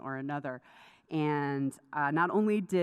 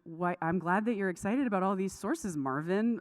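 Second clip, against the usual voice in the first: imitating mom's Southern accent, slightly higher; teacher with a Southern lilt, lightly imitated; 4 semitones higher than usual. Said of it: "she has a really thick Southern accent".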